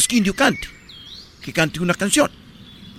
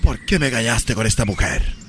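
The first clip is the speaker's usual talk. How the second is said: soap opera accusation; 9 semitones lower than usual. Acted. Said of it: "imagínate que le dijera así".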